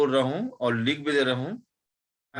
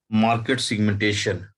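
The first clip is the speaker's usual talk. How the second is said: slow, clear dictation of market segmentation; 4 dB louder, slower than usual. Shown as a demonstration. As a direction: spell it out slowly for the class. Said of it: "तो मैं slow slow ही बोल रहा हूँ". (धीमे धीमे लिखवाते हुए)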